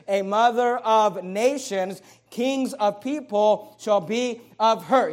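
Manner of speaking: "a mother of nations" slowed, each word weighted; emphasis. Shown as a demonstration. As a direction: spell out "mother of nations" slowly and firmly. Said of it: "notice the emphasis".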